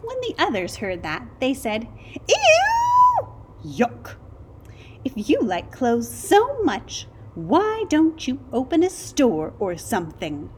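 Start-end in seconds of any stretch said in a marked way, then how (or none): 2.3-10.5 high, disgusted sarcastic jeer. A narrator's reading. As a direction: sneer at him in disgust. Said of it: "Naked mole rats can be very sarcastic".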